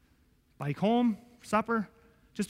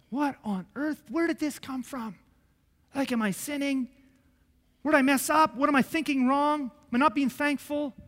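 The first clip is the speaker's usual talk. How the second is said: desperate prayer; 6 semitones higher than usual. Retold or imitated. Retelling desperate prayer to God.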